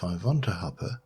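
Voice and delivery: put-on light vampire accent, v for w; a hint of mock Dracula accent; fake vampire accent. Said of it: "stop pronouncing this with a fake vampire accent".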